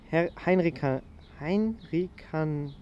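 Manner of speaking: slow, halting attempts at a Latin word; stumbling Latin. Real, not acted. Student struggling to read out a Latin name, slow and halting. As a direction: sound out "Heinrikan" haltingly, breaking off. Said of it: "ich war schlecht in Latein".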